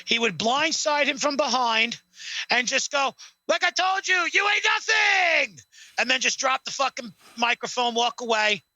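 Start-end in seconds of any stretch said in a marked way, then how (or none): 3.5-5.6 hammed-up Rock catchphrase yell; Rock impression. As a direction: sneer it down at Cena like The Rock. Rock taunting Cena.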